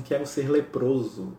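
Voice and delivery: slow, understated solemn wish; retold earnest plea, word by word; tearful resolve. Francisco with tears in his eyes asking Jesus, solemn. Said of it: "com os olhos em lágrimas".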